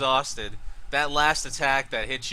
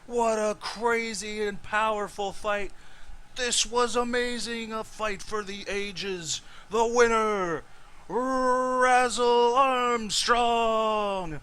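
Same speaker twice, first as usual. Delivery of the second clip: high, booming arena announcer; 12 semitones higher, 4 dB louder than usual. Acted. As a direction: call it out like a ringside announcer. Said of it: "the announcer looks to you and says".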